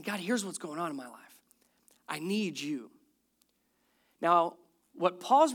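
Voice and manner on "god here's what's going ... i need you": soft, lower humble prayer; humble plea. Acted. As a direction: lay it quietly before God. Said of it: "bringing his complaints humbly to God".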